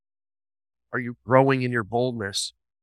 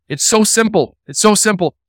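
sarcastic; 7 semitones higher, 4 dB louder than usual. Retold or imitated. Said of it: "Receive Christ because it's so simple".

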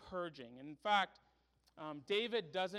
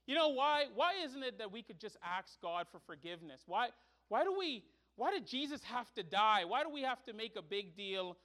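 pitched up and louder, pressing why, why; the challenger pushing back; exasperated questioning; 4 semitones higher, 6 dB louder than usual. Retold or imitated. Interlocutor pressing the preacher, exasperated questioning. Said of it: "he's arguing with his interlocutor".

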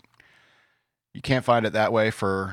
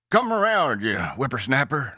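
put-on old prospector; 3 semitones higher than usual. Old-timer voice telling tales.

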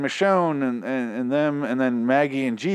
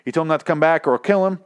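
put-on higher-pitched Southern accent; 5 semitones higher, 3 dB louder, faster than usual. Host retells Daryl's threat to Dwight, Southern voice. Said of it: "so I'm gonna do the Southern voice".

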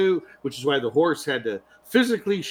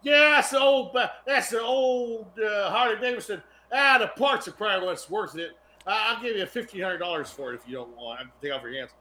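local guy in town; 7 semitones higher than usual. Acted. Local guy making a lowball offer, put-on dealer voice. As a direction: put on a local haggler, pitched up. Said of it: "the local guy in town who's like".

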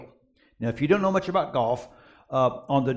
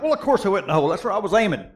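cocky strut; 3 semitones higher, much faster than usual. Retold or imitated. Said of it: "I strutted up to that green like".

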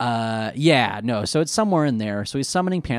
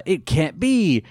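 shocked villain line; 5 semitones higher, 6 dB louder than usual. Retold or imitated. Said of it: "he says".

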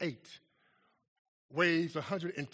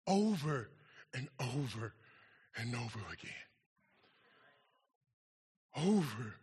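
each over softer and lower, fading away; fading repetition; 8 semitones lower, 5 dB quieter than usual. Acted. Preacher fading out on the word over, quieter each time. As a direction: let the word over die away, repeat by repeat.

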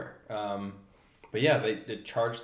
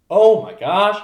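much higher and louder amazed exclaim; amazed gasp; 7 semitones higher, 12 dB louder, slower than usual. Retold or imitated. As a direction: burst out in awe. Hearing leopards answer each other.

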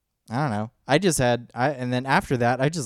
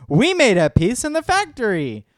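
higher, louder eager protest; excited insisting; 8 semitones higher, 6 dB louder than usual. Retold or imitated. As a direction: insist eagerly we already made it. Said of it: "it was like".

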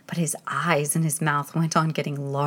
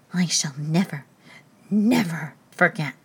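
shaken vow. Acted. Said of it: "frightened whisper".

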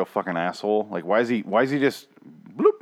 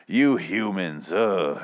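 judgmental; much slower than usual. Retold or imitated. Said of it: "he gets all mad and judgmental".

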